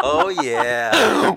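high, drawn-out victory shout; slow, high-pitched elated yell; triumphant celebration. Real, not acted. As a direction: celebrate like you just won. Celebrating their win at the game.

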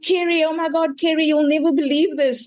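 high-pitched, breathless-with-news retelling; re-enacted excited call, pitched high; excited phone call. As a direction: burst out with unbelievable news to a friend.

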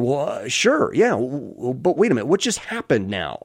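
imitating a dad just waking up; a touch of sleepy, halting confusion; groggy. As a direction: stumble through it as if half awake. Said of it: "he says groggily".

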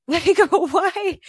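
squealing why through a laugh; laughing disbelief. Retold or imitated. In a room with a rapper's manager, laughing high and loud in disbelief.

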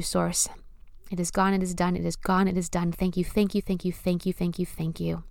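softening, fading prayer of release; prayerful affirmation. Acted.

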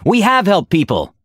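high-pitched, insistent protest; narrated shout. A narrator's reading. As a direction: defend yourself with a lifted voice. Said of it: "Aura shouted".

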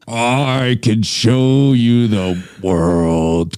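slow mock Vader singing Aladdin; Darth Vader voice. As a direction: croon it like a Sith lord. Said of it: "Darth Vader singing a song".

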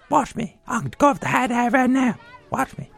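put-on a show-off kid announcing his dive; boastful kid. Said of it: "he's telling me ahead of time".

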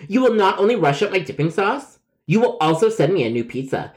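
acted high-pitched insistence; indignant demand. Caller demanding a new pizza, hammed-up indignation. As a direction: demand it like an affronted customer.

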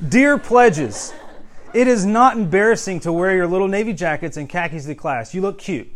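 loud, high, hammed-up open letter; mock rant. Preacher reading a rant to pledges, hammed-up address. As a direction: proclaim it with exaggerated emphasis, easing off at the end. Performing printed pirate rants.

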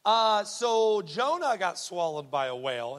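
loud, slow imitation of a child's question; lightly voiced earnest schoolgirl, spelling it out; little girl's question. Little girl questioning her teacher about whales, lightly imitated, insistent. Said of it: "she's like".

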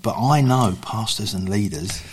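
hushed, near whisper. Real, not acted. Believer confiding about church leaders, hushed. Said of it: "why am I whispering".

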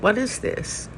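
a quick, soft, rising question of wonder; asked in sudden amazement; hushed, wondering query; startled question. Retold or imitated. Startled by the koan.

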